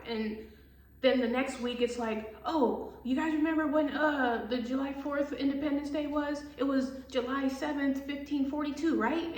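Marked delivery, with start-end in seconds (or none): 2.5-9.3 lightly higher, know-it-all teacher voice; mock history teacher. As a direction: play a confused teacher lecturing wrong dates. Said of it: "a fucking history teacher".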